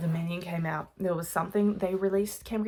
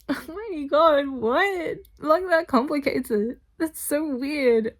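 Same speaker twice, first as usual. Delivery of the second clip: 1 excited; 9 semitones higher, 6 dB louder, slower than usual. Real, not acted. Reacting to the twist.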